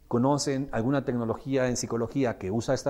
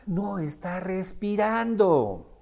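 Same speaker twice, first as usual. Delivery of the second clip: ordinary delivery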